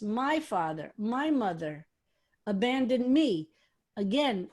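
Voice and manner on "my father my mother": "my father, my mother" with "my" stressed and a pause between; emphasis on my. Shown as a demonstration. Rabbi dwells on the verse's drama for his class, stressing each "my". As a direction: lean on each "my", set the two apart. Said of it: "The emphasis".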